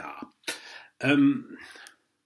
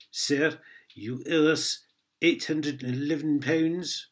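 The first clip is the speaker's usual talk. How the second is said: slow, louder mock gendarme in a Scottish accent; accidental Scottish accent; 2 semitones higher, 4 dB louder, slower than usual. Imitating French police demanding money, in a Scottish accent. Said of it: "That went a bit Scottish".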